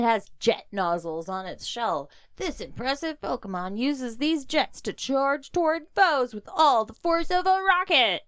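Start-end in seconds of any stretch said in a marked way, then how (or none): 2.4-8.2 hyped nineties ad read; rising into an ad voice; toy commercial. Acted. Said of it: "That was my nineties toy commercial voice".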